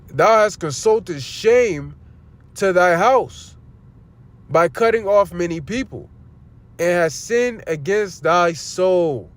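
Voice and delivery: slow, solemn reading of the verse; preacher reading the prophet's words, slow and solemn; scripture reading. Acted. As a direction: read it out weighty and unhurried. Reads scripture aloud.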